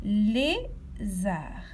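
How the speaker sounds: "Lézard" whispered, no voice at all. Shown as a demonstration. Teacher to child listening for syllables, whispering. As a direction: breathe "Lézard" so the child leans in. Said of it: "À quel endroit entend-on la syllabe lé".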